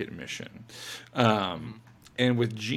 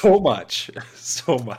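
emphatic; 2 semitones higher, 13 dB louder, slower than usual. Real, not acted. Emphatic agreement.

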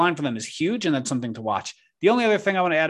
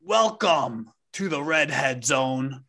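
announcer voice; slower than usual. Acted. Announcer welcome.

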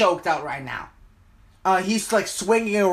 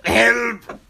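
high, drawn-out cry for help; desperate plea; 6 semitones higher, much slower than usual. Acted. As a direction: beg your comrades to save you. Monster begs comrades for help.

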